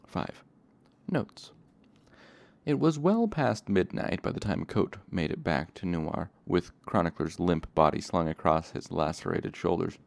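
even, engaged audiobook narration; story narration. A narrator's reading. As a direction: tell the scene like a storyteller. Reading the novel aloud.

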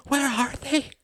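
high, desperate question; desperate plea. Acted. Mother pleading for her children's whereabouts, high and desperate. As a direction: plead for an answer.

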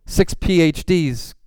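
lightly acted gushing praise, slowing on the degrees; mock admiration. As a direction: list the credentials with put-on awe. Mimicking people impressed by lofty credentials.

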